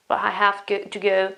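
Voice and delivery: "but" said with no final t before "I have"; unpronounced T. Shown as a demonstration. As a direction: leave off the t in "but". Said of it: "I don't pronounce the T".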